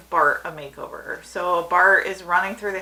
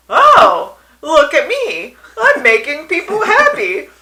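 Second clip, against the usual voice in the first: high, very loud, hammed-up sarcastic outburst; frustrated, over-the-top sing-song sarcasm; mock-cheery sarcasm; 14 dB louder than usual. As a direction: belt it out in exaggerated fake glee. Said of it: "I was being sarcastic".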